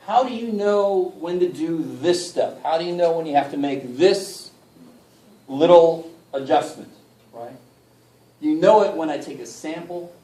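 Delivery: slow, deliberate teaching delivery; talking slowly. Real, not acted. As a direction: spell it out slowly for the class. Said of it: "I'm talking really slow".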